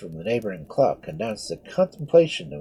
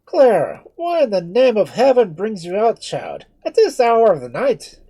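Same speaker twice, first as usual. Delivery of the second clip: loud, high worried friar; anxious questioning of the girl; concerned priest; 10 semitones higher, 9 dB louder than usual. Acted. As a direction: priest asking the girl why she is out.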